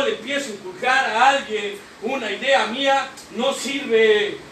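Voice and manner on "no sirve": ordinary talk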